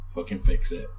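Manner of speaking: low whispered threat, voiceless; menacing whisper. Retold or imitated. Brad Pitt's character threatening the tyre slasher in a whisper. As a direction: hiss the order quietly.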